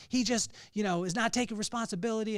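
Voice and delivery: exasperated dad. Retold or imitated. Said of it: "I'm getting angrier and angrier".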